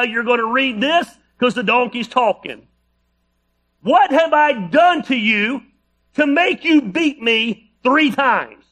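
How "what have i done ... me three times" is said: slow, higher, lightly voiced Shrek donkey; a hint of the wisecracking Shrek donkey; drawn-out pleading donkey from Shrek, mildly done; Eddie Murphy Donkey voice. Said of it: "read this in your best Eddie Murphy voice".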